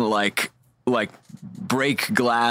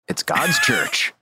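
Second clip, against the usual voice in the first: very high, slow mock divine pronouncement; booming God voice; slower than usual. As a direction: intone it like a comic God.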